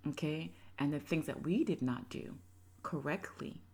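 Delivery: put-on low, gentle explaining to the kids; calm talk to children. Mother explaining the breakup to her children, gentle and low. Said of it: "I would have said".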